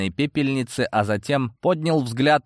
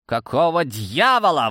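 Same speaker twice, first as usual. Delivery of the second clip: exclaiming; 4 semitones higher than usual. Acted. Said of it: "воскликнул".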